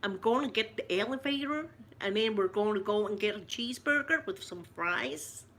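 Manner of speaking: put-on American accent. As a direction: play at talking like an American. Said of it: "I kinda feel American".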